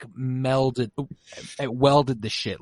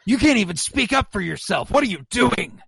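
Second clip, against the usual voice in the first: mock taunt; 6 semitones higher than usual. Mock taunting of silent Joe.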